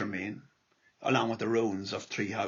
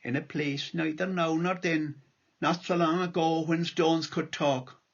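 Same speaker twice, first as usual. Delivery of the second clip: lilting irish storyteller. Acted. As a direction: recite the poem gently, like a storyteller. Reads his poem aloud.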